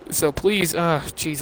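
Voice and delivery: interrupted by a hiccup; speech broken by a hiccup. Real, not acted. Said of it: "I'm sorry, I keep hiccuping".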